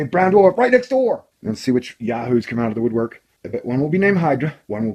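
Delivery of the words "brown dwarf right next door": sensational headline. Retold or imitated. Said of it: "I'm gonna say".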